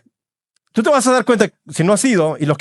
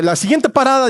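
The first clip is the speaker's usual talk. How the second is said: higher-pitched imitation of a subway announcer; a light imitation of the female subway announcement; subway woman's voice; 6 semitones higher than usual. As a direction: sing out like the train's recorded lady. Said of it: "dice la mujer".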